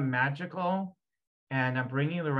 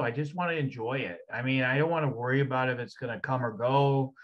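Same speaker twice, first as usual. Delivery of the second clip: speaking for the energy. Acted. Healer speaking as the client's ancestral energy, lightly voiced and carefree. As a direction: let the spirit ramble, carefree and scornful of thieves. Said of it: "if I were to speak for that energy".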